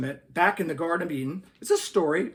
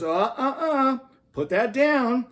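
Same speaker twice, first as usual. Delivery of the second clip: higher, louder, slow finger-wagging reproach; scolding God; 3 semitones higher, 4 dB louder than usual. Acted. God scolds the scientist, slow mock scolding. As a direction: play it like a stern parent. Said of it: "wags his finger at the scientist".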